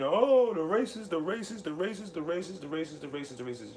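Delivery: high mock screaming that fades to a mutter; high mocking cry of racist, trailing off. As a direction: parody the accusers shrieking racist over and over, dying away. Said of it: "they start screaming".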